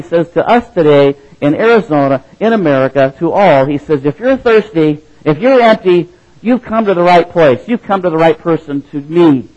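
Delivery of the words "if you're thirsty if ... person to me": earnest invitation. Acted. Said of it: "Jesus says".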